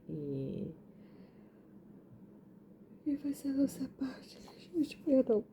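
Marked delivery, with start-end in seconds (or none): 3.0-5.4 drowsy, words drifting off; nodding off mid-sentence; sleepy. Real, not acted. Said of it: "tô morrendo de sono".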